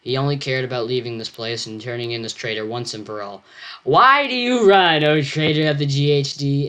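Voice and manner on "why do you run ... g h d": much higher, louder, slow yelp on "Why"; yelping cry. Acted. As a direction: yelp it out at the fleeing traitor. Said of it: "Alfred yelped".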